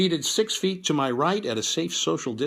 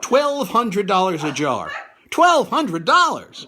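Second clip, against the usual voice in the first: mock outrage; 5 semitones higher, 5 dB louder, much slower than usual. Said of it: "mock outrage at price".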